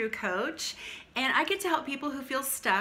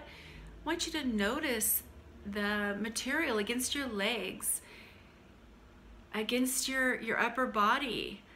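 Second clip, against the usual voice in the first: calm grounding exercise. Acted. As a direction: gently draw attention to the senses.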